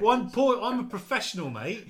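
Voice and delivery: high, loud indignant outburst; acted furious. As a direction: play an outraged salesman defending his pride. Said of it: "He gets furious".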